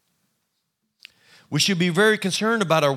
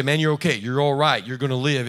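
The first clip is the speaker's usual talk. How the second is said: reassuring soldier; 2 semitones lower than usual. Retold or imitated. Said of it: "They say".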